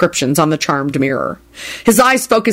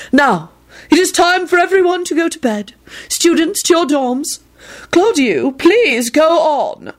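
high, fluttery, drawn-out ending; dreamy dismissal; 10 semitones higher than usual. A narrator's reading. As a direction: send them off like a dotty seer. Sybil dismissing everyone.

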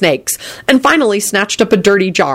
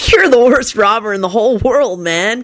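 higher-pitched dude, mildly sympathetic; 4 semitones higher than usual. A narrator's reading. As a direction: commiserate like a laid-back pal. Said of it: "Kenny told the fellow sympathetically".

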